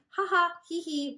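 high, loud spoken giggle; giggling. Acted. Wolf Cub giggling at the rabbit, high and loud. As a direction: giggle from the tickle. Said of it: "tried to stop giggling".

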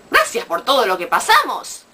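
mock-indignant repeat with big pitch swings; incredulous echo. Comedian questioning a fake friend's thanks, incredulous. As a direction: throw the phrase back in disbelief.

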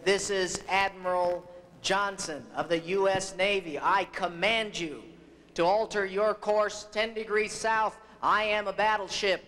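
mildly angered mock command, building to the end; retold anger, firm and emphatic; angry admiral. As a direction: pull rank as an exasperated admiral, rising in pitch. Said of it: "Finally, in anger".

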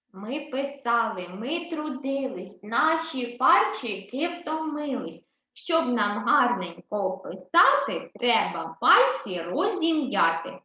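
slow, rhythmic chant of a finger rhyme; nursery rhyme. Acted. Teacher recites a finger-exercise rhyme to first graders, slowly and rhythmically. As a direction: chant it slowly for the little ones.

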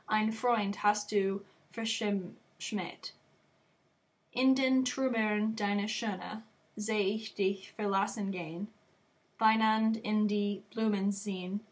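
measured, declamatory verse reading with pauses; poem recitation. Acted. Student reciting Schiller's poem about a vain girl, declaimed. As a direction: recite it line by line, lifting the exclamations.

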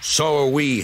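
hissed retort. A narrator's reading. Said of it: "hissed the engines".

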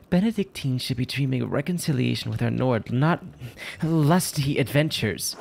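lightly voiced prim religious sister; a hint of a disapproving nun; lightly acted, measured reproof; reproving nun.

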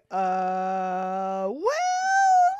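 sheepish squeak of a well; awkward stalling. Retold or imitated. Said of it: "standing there going".

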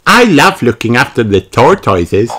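put-on high little-girl character voice; Peppa. A narrator's reading. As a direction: enthuse high like a child. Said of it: "said Peppa".

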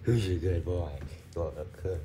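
talking to the puppy; sing-song pet voice for the dog. Real, not acted. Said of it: "it's just my dog voice".

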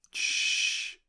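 long, unvoiced shushing whisper; whispered hush. A narrator's reading. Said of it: "szepnął doktor".

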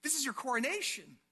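softly bewildered questioning; puzzled, pitch lifting in disbelief; confused. Acted. Preacher plays confused disciple seeing Jesus weep, bewildered. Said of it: "you're confused".

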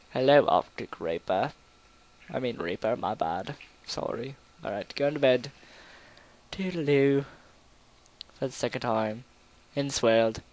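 put-on British accent. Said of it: "I'm talking like a British person".

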